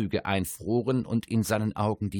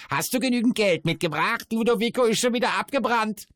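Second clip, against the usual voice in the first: high, loud mocking dwarf; crowing dwarf voice; 13 semitones higher, 5 dB louder than usual. A narrator's reading. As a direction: squawk it out, taunting. Dwarf mocks the merchant.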